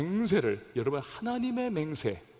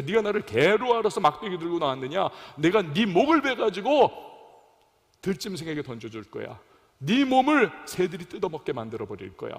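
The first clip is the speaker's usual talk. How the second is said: Goliath taunting; 2 semitones higher, 3 dB louder than usual. Retold or imitated. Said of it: "골리앗이 얼마나 다윗을 저주하고".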